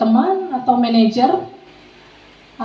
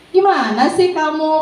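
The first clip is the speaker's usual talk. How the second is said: lightly acted drawn-out chummy reproach; a hint of a pal's gentle grumble; friend; 3 semitones higher, slower than usual. Shown as a demonstration. Teacher plays the student's friend, mild drawn-out chiding. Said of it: "Kemudian teman".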